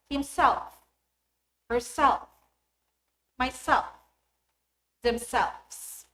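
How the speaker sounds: himself, herself, myself, themselves with stress on SELF and SELVES; last-syllable stress. Shown as a demonstration. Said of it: "stress falls on the last syllable".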